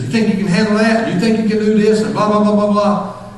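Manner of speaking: high-pitched imitation of a Connecticut boss rattling on; Connecticut Yankee talk. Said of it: "talking in his Connecticut Yankee".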